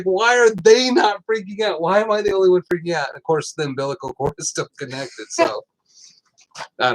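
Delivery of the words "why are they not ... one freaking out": higher, hurried mock alarm, imitating himself; retold panic. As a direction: ask it like nobody else sees the danger. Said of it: "And I was just like".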